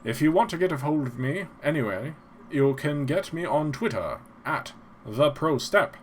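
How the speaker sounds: lightly voiced old-time radio announcer; a hint of a vintage radio host; old-timey radio announcer. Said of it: "I sound like an old-timey radio announcer".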